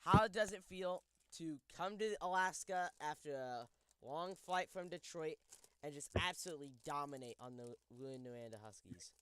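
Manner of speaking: talking while eating; words round a bite of food; mouth full. Real, not acted. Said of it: "clearly not me eating Reese's peanut butter".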